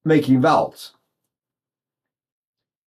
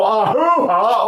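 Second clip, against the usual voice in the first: wrong vowel demo; 5 semitones higher, slower than usual. Shown as a demonstration. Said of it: "I didn't go".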